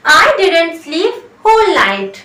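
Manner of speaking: very slow, deliberate English model; slow teaching read; slow demo. Shown as a demonstration. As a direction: stretch every word so students copy it. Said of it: "तो आप बोलिए".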